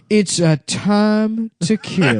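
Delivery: laughing punchline. Pretend.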